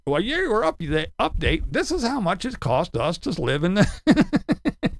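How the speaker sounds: mock homeowner. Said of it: "And then".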